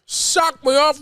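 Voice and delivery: quoted catchphrase. Retold or imitated. Quoting a remembered line.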